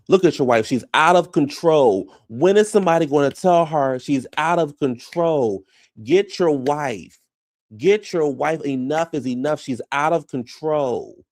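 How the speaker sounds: high, insistent mock scolding; hammed-up exasperation, words stretched out; acted outburst. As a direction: imitate someone fed up and demanding action. Retelling Sue's outburst at a husband.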